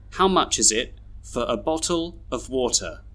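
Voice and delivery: "for a" as fuh-ruh, "of" as uv; schwa weak forms. Shown as a demonstration. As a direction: weaken "for", "a", "of" to schwa. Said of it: "read all these sentences with their schwas".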